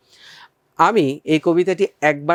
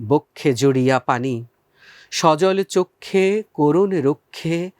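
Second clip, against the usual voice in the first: poem recitation. Shown as a demonstration.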